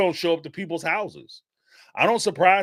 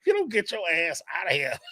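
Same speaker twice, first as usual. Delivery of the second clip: laughing; 3 dB quieter than usual. Retold or imitated. Imitating brother chasing visitor out.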